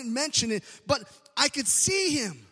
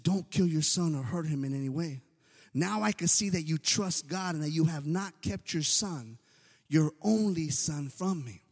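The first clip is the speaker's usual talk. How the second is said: angel's voice; 11 semitones lower, 4 dB quieter than usual. Acted. Angel of the Lord speaks.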